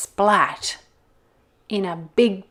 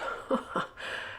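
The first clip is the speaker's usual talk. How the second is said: soft wolf chuckle; 9 dB quieter than usual. Acted. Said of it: "He chuckled".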